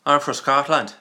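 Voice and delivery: Scottish accent slipping into Irish; a wobbly Scottish-Irish accent; attempted Scottish accent. Shown as a demonstration. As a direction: try normal Scottish, landing on Irish. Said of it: "if I try to do normal Scottish, it comes out Irish".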